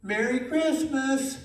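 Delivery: high, slow drilling voice; teaching the bird. Retold or imitated. Girl teaching the macaw its Christmas words, high. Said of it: "she said".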